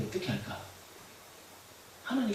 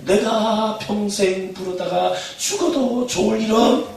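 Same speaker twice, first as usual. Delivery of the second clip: call to repeat; 7 semitones higher, 7 dB louder, much slower than usual. Shown as a demonstration. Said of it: "여러분 한번 따라하세요".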